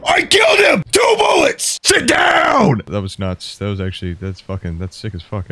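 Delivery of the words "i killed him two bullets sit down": very high, loud victory shouting; triumphant yell. Real, not acted. Gamer after a two-bullet kill, high victory shouts. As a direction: scream the win at the top of your lungs.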